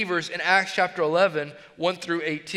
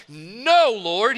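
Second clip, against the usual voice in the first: a loud, firm no, pushed out hard; strong emphatic refusal; 4 dB louder than usual. Acted. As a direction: refuse outright, with force. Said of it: "That's a strong, emphatic".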